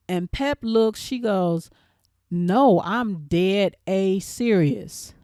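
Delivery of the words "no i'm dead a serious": slow, emphatic retold retort; emphatic insistence. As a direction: insist slowly, word by word. Retold standoff, she insists.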